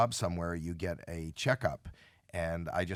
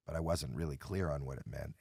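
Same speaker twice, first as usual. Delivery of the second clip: hushed whisper; whispered aside; 5 semitones lower, 6 dB quieter than usual. Real, not acted. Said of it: "unvoiced whisper".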